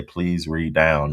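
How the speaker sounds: slow, drawn-out quote; quoting him. Retold or imitated. Quoting a man's odd saying slowly. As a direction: drag out "Please read down." lazily. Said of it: "I heard the girl say".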